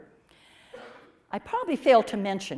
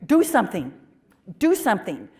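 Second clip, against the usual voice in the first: raised, urgent plea to God, higher and louder; pleading with God; 6 semitones higher, 7 dB louder than usual. Retold or imitated. Young woman begging God aloud, urgent and raised. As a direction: beg heaven to act, voice climbing. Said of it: "And I can remember saying".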